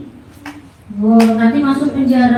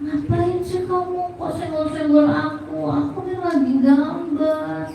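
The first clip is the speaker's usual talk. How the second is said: put-on higher, softer child's protest; voiced child Piko; 5 semitones higher, 6 dB quieter than usual. Child to the friend nudging during drawing, softly voiced protest. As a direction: lightly play an annoyed little one, softly pitched up. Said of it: "Pikonya bilang".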